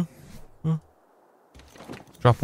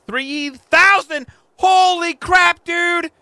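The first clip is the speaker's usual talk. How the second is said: amazed; 14 semitones higher, 3 dB louder, much slower than usual. Real, not acted. Amazed at stats.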